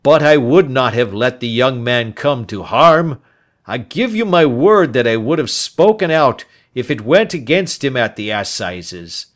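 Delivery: put-on loud, earnest old man's plea; loud, insistent pleading old man; pleading old Turner. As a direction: swear it with urgency.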